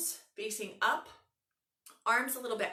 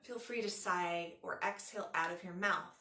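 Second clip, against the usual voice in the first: unhurried yoga nidra guiding voice, long pauses; measured relaxation instructions with room to breathe; guided meditation. Acted.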